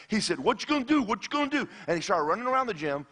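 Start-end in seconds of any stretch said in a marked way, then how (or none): 0.4-1.7 high-pitched mocking kid; acting out a schoolyard pest; bully's taunt. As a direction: taunt in a raised sing-song pitch. Bully taunting him, acted out.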